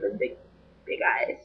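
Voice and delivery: hushed, trailing off; soft whispered aside; breathy whisper. Real, not acted. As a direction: whisper it dreamily. Dreamy trailing description.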